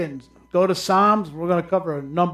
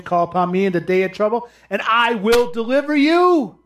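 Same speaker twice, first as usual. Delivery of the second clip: quick reading; 5 semitones higher, 4 dB louder than usual. Shown as a demonstration. Preacher reading a verse to congregation, quick reading. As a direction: Call upon me read fast, rising at the end. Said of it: "That's what he's saying".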